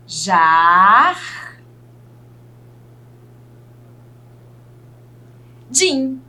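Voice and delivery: "Jar", held long, a long pause, then "din"; teacher slowly sounding out "Jar-, din"; syllable by syllable. Shown as a demonstration. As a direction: split "Jardim" into two separate syllables. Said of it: "separar aqui em sílaba essas palavrinhas".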